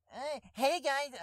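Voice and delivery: a poor try at a friend's voice; Dizzy impression. Hamming a cohost's voice for the cast. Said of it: "that doesn't even sound like Dizzy".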